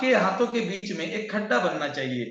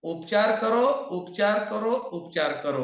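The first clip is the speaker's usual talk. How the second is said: reciting a healing mantra; slower than usual. Shown as a demonstration. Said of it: "तीन बार".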